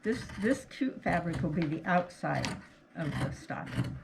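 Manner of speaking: muffled behind a face mask; talking through a cloth mask. Real, not acted. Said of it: "hopefully you can hear me through the mask".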